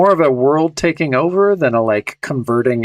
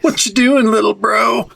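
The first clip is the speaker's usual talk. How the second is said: much higher silly imitation of the stranger; mock creepy hippie; 9 semitones higher than usual. To the cohost, parodying the vampire in a high goofy voice.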